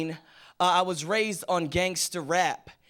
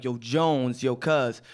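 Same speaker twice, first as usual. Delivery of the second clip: best friend impression; 4 semitones lower than usual. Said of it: "He was like".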